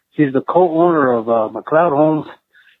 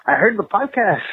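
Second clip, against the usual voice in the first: lightly voiced woman, pitched up; imitated girl voice; 5 semitones higher than usual. Co-owner's wife telling the caller she knows him, lightly imitated girl voice. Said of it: "just think of it as a".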